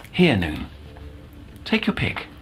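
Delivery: soft near-whisper, slowing at the end; hushed offer. Acted. Doctor softly tempting the girl with sweets. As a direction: coax her gently with the sweets.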